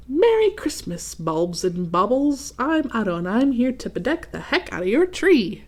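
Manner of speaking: lightly voiced cocky ornament; cheery Otto voice. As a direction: greet the tree like a star arriving.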